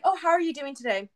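retold eager question. Acting own question to partner.

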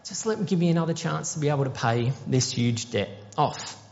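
high, breaking plea to spare his family; desperate pleading. Acted. Servant on his knees begging the king, high desperate plea. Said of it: "he pleads with the king".

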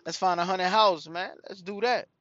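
loud and high, egging his son on; a dad urging his son toward a haunted house, loud and high. Retold or imitated. Dad pushes son to the haunted house, loud urging. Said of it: "I said".

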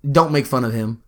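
low, soft, serious warning; grave and understated; real serious. Retold or imitated. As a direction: voice Dad's sober warning, low and quiet. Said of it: "like, he got real serious".

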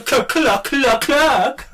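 loud, high clucking; chicken clucking. Pretend. Imitates chicken after win.

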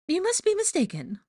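very high, put-on brush-off; dismissive high character voice. A narrator's reading. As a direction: wave him away airily. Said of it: "she said dismissively".

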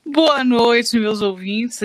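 sultry whispered greeting; breathy seductive whisper; femme fatale. Pretend. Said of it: "Eu vou usar minha voz sensual". (voz sensual sussurrada)

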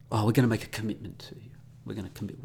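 quick whispered mock promise; mock official. Vlogger imitating an official's empty commitment, whispered. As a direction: whisper the hollow promise fast. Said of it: "Notice the word commitment".

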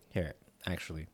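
soft unvoiced ASMR whisper. Real, not acted. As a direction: breathe the words, no voice. Whispering ASMR eating together.

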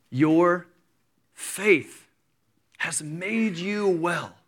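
each word set apart by pauses; slow, weighty declaration; solemn pronouncement. Acted. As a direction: let every word land separately. Jesus's solemn word to woman.

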